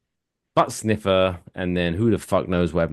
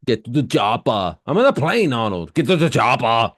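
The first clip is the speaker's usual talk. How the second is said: Arnold impression. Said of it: "That's a terrible impersonation".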